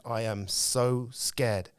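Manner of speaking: very slow, each word stretched in mock fear; drawn-out scared. Will Smith retold, frozen with fear in the plane, stretched out slowly. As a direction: drag out "so" like a man frozen on the plane. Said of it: "He said".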